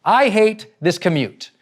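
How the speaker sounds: freaking out driver. Retold or imitated. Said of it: "They completely freak out".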